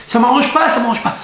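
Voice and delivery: high, loud protest; fed-up husband. Acted. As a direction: push back like a husband who has had enough. Husband refusing his wife.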